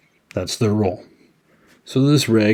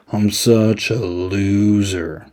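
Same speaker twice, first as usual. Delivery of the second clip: mopey self-pity; much slower than usual. Retold or imitated. Shelly mopes to his friend.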